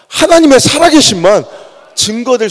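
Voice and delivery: loud, high preaching cry; rising shout. Real, not acted. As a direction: lift it to a shout. Preacher climaxes loudly. (힘차게 외치듯)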